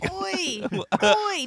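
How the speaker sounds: high, sharp British "Oi!". Shown as a demonstration. Tiffany proving Brits say oi, high and sharp. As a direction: call it out like a London local. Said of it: "No, trust me".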